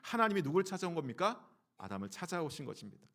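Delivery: usual speaking voice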